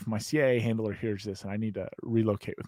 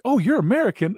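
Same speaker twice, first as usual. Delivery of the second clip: imitating a local woman; 10 semitones higher, 5 dB louder than usual. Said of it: "And she's like".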